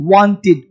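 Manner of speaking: wanted with a light i sound, wantid; right wanted. Shown as a demonstration. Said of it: "हल्का सा ई sound देना है". (wanted में हल्का सा ई साउंड)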